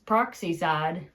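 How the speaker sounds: peroxide drawn out as "proxy-side"; Granny's pronunciation. Retold or imitated. Showing how Granny said "peroxide", as "proxy-side". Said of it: "I've also heard her say".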